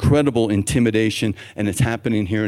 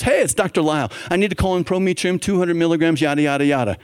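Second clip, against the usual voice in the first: routine call-in; 5 semitones higher, faster than usual. Retold or imitated. Doctor calls in prescription, retold.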